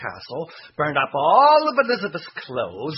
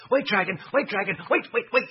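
pleading, high and urgent; eager calling; 7 semitones higher, faster than usual. A narrator's reading. Elizabeth calls to dragon.

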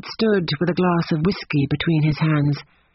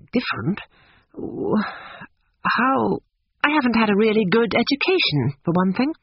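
more angry than sorry; 6 semitones higher than usual. A narrator's reading. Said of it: "she was more angry than sorry, and her voice showed it".

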